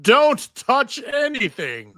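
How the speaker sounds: loud, high, slow warning; sharp warning. Acted. Musician warning Joxer off his instruments, a sharp loud warning. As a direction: bark a stop at someone reaching for your things.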